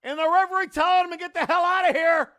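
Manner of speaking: excited shouting. Real, not acted. Brawl breaks out ringside.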